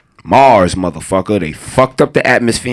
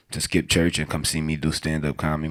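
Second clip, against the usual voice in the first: ordinary delivery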